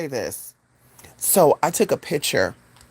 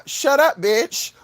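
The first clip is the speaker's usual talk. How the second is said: blurted thought; 8 semitones higher, much slower than usual. Acted. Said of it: "you're thinking it".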